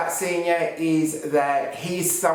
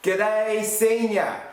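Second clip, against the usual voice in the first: high, drawn-out cheery hail; big sing-out hello, pitched up; enthusiastic greeting; 6 semitones higher, much slower than usual. Real, not acted. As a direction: call it out brightly to a far-off friend.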